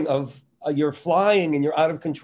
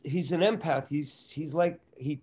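normal talking voice

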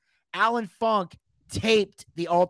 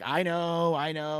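low-key, placating reassurance; calming down; 3 semitones lower, slower than usual. Retold or imitated. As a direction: gently talk down an angry friend. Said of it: "he's trying to calm me down".

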